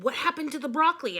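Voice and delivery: fast, high astonished question; excited question. Acted. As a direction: blurt it out. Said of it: "asked Andrea".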